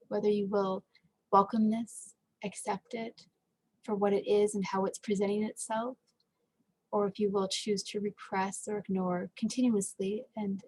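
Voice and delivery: measured meditation guide with long pauses; guided meditation. Acted. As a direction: gently guide listeners, pausing between phrases.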